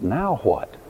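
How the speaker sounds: steady and inviting; God's gentle question. Retold or imitated. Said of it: "God's question is".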